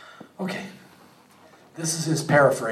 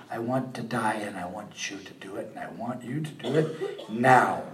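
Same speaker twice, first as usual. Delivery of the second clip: mock pouty Jonah; 3 semitones lower, 4 dB quieter than usual. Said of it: "Pouty and telling God".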